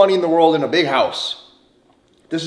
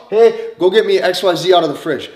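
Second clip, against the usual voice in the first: directing her; 4 dB louder than usual. Shown as a demonstration. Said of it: "You start directing her".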